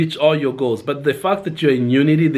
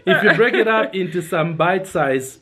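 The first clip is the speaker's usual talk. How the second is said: laughing while getting it right; 5 semitones higher than usual. Real, not acted. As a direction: fight back the giggles. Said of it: "There we go".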